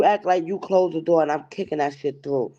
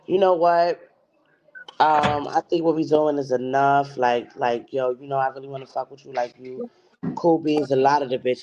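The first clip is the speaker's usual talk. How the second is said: low, hushed imitation; lightly voiced sweet talk; imitating a caller; 5 semitones lower than usual. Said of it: "be like".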